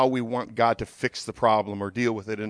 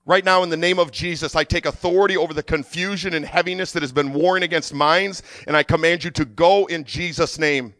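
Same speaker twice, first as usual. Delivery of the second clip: firm, raised declaration; commanding prayer; 2 semitones higher than usual. Real, not acted. Preacher takes authority over confusion, commanding prayer. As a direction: pray with authority, pushing it out.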